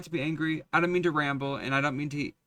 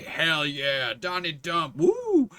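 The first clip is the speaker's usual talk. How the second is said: mocking a Trump fan; 4 dB quieter, much slower than usual. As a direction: sneer it like a dopey supporter, end on a shrill woo. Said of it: "any motherfucker could still say".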